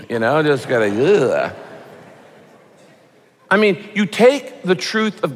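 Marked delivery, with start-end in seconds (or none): 0.9-1.5 disgusted ugh. Shown as a demonstration. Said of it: "feeling a little sticky".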